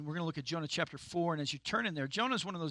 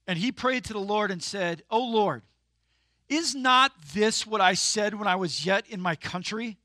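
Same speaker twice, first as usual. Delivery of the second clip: loud, indignant scripture reading; reading with attitude; 3 semitones higher, 8 dB louder than usual. Shown as a demonstration. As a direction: read it like a sulky, resentful prayer. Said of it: "why are you reading with an attitude".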